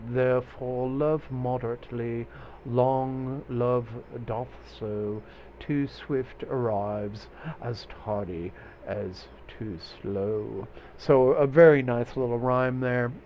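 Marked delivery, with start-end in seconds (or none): 0.1-10.6 measured Shakespearean British; British accent. Acted. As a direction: try a British accent, drawing the words out. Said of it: "sounding a little more British".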